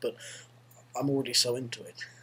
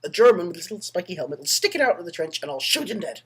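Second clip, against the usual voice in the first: lightly voiced Irish soldier; Irish soldier accent; 4 semitones higher, 3 dB louder than usual. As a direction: carry on pitching in an Irish accent. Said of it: "an Irish soldier goes to his commander".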